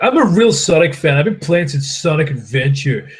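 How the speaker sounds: lightly put-on boast of a self-declared fan; mock fan boast. Streamer mimicking newer fans who count Sonic Adventure as classic, mock boast.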